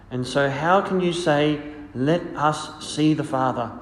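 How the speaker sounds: solemn liturgical reading voice; gospel reading. Acted.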